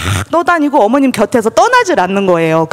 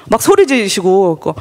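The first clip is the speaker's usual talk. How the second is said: ordinary talk, nothing marked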